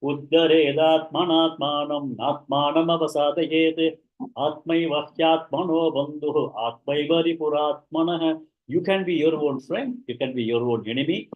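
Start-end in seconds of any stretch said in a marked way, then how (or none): 0.0-8.4 slow, measured Sanskrit recitation; measured verse delivery. Acted. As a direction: recite the shloka evenly.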